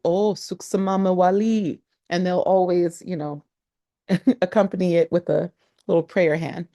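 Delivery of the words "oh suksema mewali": polite local reply. Retold or imitated. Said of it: "they'll say back to you".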